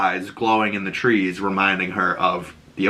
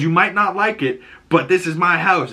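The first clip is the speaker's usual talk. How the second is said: stern dad; 8 semitones higher than usual. Retold or imitated. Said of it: "And Joel says".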